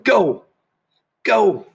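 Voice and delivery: high, loud cheering yell. A narrator's reading. Mouse and the twins cheering Sheila on, yelling. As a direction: cheer her on from the poolside. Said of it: "They were yelling".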